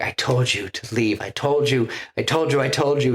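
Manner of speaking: mock anguished anger at her; retold furious repeat, rising; angry. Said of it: "He's just so angry".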